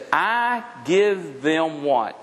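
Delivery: "I give them" drawn out slowly, left hanging; slow fill-in prompt. Shown as a demonstration. Pastor prompting the congregation to finish the verse, drawn out slowly. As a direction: stretch it and pause for the church to answer.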